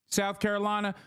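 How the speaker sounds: lightly voiced South Carolina politician; a hint of a zealous senator's put-on accent; hawkish politician impression.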